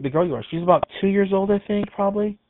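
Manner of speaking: lightly voiced, high-pitched pondering; imitated musing resident. Acting resident guessing girl's age.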